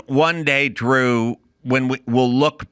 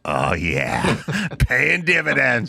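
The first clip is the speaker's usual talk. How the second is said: mock gleeful satisfaction. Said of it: "the first thing's like".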